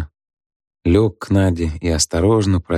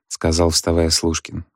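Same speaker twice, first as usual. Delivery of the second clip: plain reading voice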